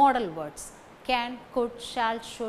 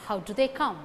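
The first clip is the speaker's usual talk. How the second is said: "How" and "come" stressed, weak "do they"; faster than usual. Shown as a demonstration. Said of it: "How and come carry stress".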